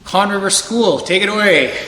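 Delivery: lightly voiced announcer call-out; powwow emcee. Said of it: "do my, uh, powwow M C thing".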